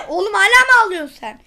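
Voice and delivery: fast, real laughter through the words; giggling teasing question; laughing. Real, not acted. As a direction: crack up while asking. Laughing at his own robot.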